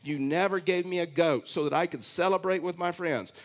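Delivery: put-on lightly whiny older brother; a touch of petulant complaint. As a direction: read it as a mild mock whine. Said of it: "read this now in a whiny voice".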